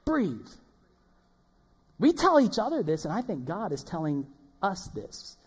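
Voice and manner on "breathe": high urgent call to stop. Acted. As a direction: call to a rushing friend to stop. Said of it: "What do you say?".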